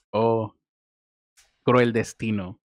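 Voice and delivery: mock tragic lament; hammed-up theatrical woe; hammy stage actor. Mock lament after joke.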